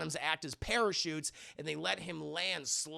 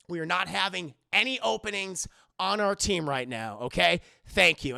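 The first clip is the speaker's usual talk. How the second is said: emphatic, measured, louder at the end; firm brush-off; 5 dB louder than usual. Retold or imitated. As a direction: shut dad down with forced politeness. Max coldly rejects his dad.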